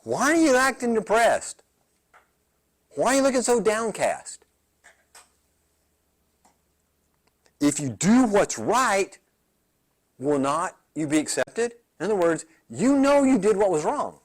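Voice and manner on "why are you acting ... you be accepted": God asking. Retold or imitated. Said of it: "he'd ask him".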